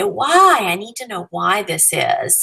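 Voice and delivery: a student pressing the teacher for a reason; curious student. Retold or imitated. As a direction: play the puzzled student insisting on reasons. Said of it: "the type of person to say".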